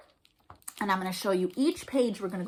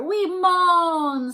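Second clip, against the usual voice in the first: little mummies moan; 7 semitones higher, 6 dB louder than usual. Acted. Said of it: "said the five".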